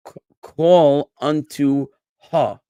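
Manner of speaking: ha said New York style with no final r; New York accent. Shown as a demonstration. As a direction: call unto ha, dropping the r as in New York. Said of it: "with a New York accent".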